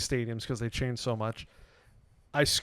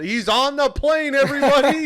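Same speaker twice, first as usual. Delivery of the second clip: mock yell; 13 semitones higher, 8 dB louder than usual. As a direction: yell it out like a tattling fan, building. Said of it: "you just yelled".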